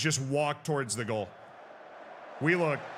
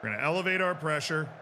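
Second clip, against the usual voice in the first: fast, stress on our; faster than usual. Real, not acted. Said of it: "repeated faster".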